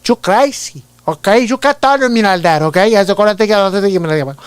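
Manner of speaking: put-on high, loud Scarface-style Cuban accent; cocky comic gangster with a thick Hispanic accent; Byron DeCash. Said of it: "Al Pacino from Scarface mixed with Chris Tucker".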